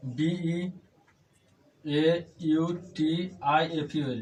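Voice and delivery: slow, separated letters with pauses; spelling aloud. Shown as a demonstration. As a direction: spell it out at writing speed. Spells beautiful while writing.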